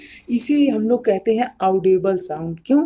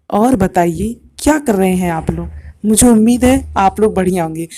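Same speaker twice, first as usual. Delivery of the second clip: calm, unhurried, lower voice; slow and low; 3 semitones lower than usual. Shown as a demonstration. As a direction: say it slowly and evenly. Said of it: "दूसरे में मेरी frequency काफ़ी कम थी।". (धीमी और नीची आवाज़ में)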